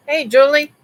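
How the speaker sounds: high, loud hello to a viewer; bright shout-out to Julie in the chat; cheerful greeting. Real, not acted. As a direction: call out a happy hello.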